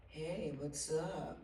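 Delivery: imitating Paul. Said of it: "That's a really good imitation".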